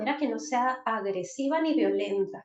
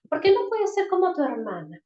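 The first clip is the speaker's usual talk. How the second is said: comparing reproach; 4 semitones higher, 4 dB louder than usual. Shown as a demonstration. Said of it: "Le estoy comparando".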